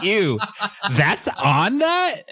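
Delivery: disgusted. Retold or imitated. Mock disgust at anchovy.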